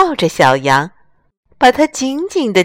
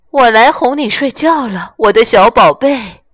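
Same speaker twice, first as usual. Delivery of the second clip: mother sheep calling; 3 semitones higher, 5 dB louder than usual. Acted. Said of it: "雷尼听见妈妈在喊他".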